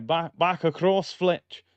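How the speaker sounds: rough attempt at a Scottish commentator; poor Scottish accent. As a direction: imitate a Scottish pundit, not very well. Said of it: "That was my Scottish accent".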